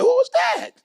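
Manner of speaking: high mock voice of a puzzled Rick. Speaker imitating Rick asking who he is in a high mock voice. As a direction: squeak out a confused who is that. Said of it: "Rick like".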